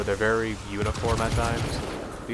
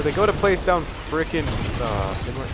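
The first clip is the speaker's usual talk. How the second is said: frustrated rant. Real, not acted. Ranting at teammates.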